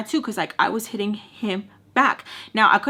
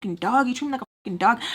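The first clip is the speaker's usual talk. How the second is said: higher-pitched mad rant; retold fed-up complaint, pitched up; retold anger; 5 semitones higher than usual. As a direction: act out being fed up with his attitude. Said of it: "I was so mad".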